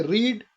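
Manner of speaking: रीड drawn out as the stressed syllable. Shown as a demonstration. Teacher pointing out the stressed syllable, रीड drawn out. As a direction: stretch the long vowel in रीड. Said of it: "stressed syllable है first".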